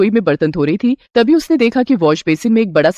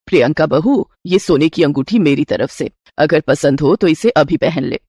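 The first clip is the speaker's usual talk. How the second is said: a doting mother-in-law offering a gift; 5 semitones lower than usual. Acted. Mother-in-law gives her new bride a gold ring, lower voice.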